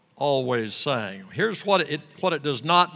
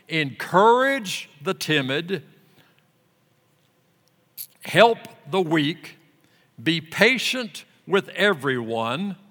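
scripture reading; 2 semitones higher, 5 dB louder than usual. Acted. Preacher reading scripture to the congregation, solemn and loud. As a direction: read the verses out with weight. Reads scripture aloud in sermon.

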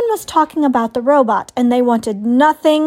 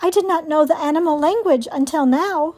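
lightly voiced robot, pitched higher; higher, measured robot heroine; 4 semitones higher than usual. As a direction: answer evenly as a robot. Robot answers the owl.

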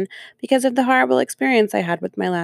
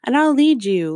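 much higher, sing-song coddling voice; mocking baby talk; 7 semitones higher than usual. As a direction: coo it like soothing a small child. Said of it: "hold your hand and be like".

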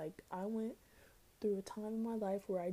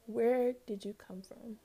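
awed whisper; 3 semitones higher, 5 dB louder, slower than usual. Real, not acted. Awed by beautiful women online.

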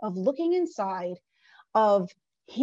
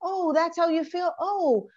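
soothing; 4 semitones higher than usual. Retold or imitated. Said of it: "calm it down and say".

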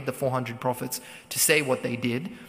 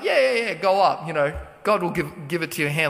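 sarcastic. Retold or imitated. Prophet mocking the king who only wants a yes, sarcastic. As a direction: toss it off like you don't mean a word. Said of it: "was a bit sarcastic".

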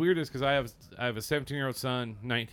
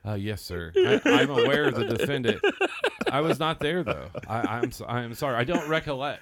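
witness stand voice; 7 dB louder than usual. Retold or imitated. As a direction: play a nervous witness on the stand. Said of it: "trying to use that voice like".

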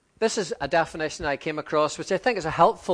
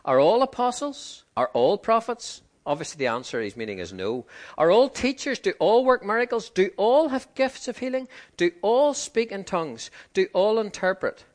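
higher, pressing each "all"; emphatic rhetorical questions; 4 semitones higher than usual. Acted. Preacher reading Paul's questions to the church, emphatic and higher. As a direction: fire the questions at them, each expecting no.

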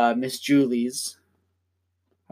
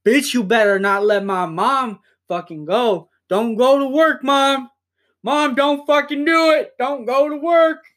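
put-on high, loud bratty child begging mom; hammed-up screaming toddler pleading; kid tantrum; 10 semitones higher, 4 dB louder than usual. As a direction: scream at the daycare teachers like a toddler. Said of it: "throwing hands with those fucking daycare teachers".

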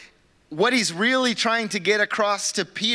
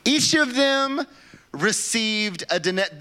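slow and much higher, in mock disbelief; disbelieving reread; 5 semitones higher, slower than usual. Shown as a demonstration. Pastor rereading the verse to his church, slow and incredulous. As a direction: reread it like you can't believe the words.

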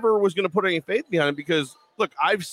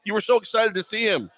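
mock text reply; 8 semitones higher than usual. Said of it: "about to write back".

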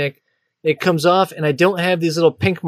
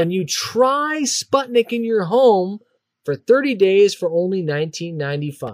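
infomercial; 2 semitones higher than usual. Pretend. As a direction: pitch the price like a TV ad. Continues the ad read.

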